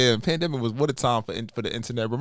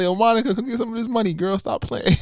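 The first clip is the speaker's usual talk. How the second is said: higher mock streamer call; hammed-up flirty call; imitating him again; 10 semitones higher than usual. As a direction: shout it playfully like him. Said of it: "he does like".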